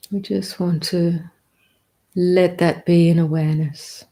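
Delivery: calm, measured meditation guidance with long pauses; unhurried meditation teacher, leaving space between phrases; guided meditation. Real, not acted. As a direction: guide them gently into the present, phrase by phrase.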